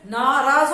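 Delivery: नाराज with a long first 'naa', stressed; correct long vowel. Shown as a demonstration. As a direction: say नाराज properly as NAA-raaz. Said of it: "वो गलत है".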